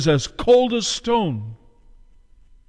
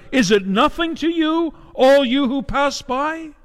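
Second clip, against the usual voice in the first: crying out at the top of her lungs; 10 semitones higher than usual. Acted. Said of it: "at the top of her lungs, she cries out".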